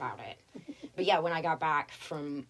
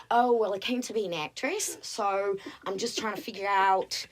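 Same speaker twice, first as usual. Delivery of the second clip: put-on Australian accent; 2 semitones higher, 4 dB louder than usual. Waitress explaining she came to act, Australian accent. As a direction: fake the struggling actress. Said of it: "Australian accent".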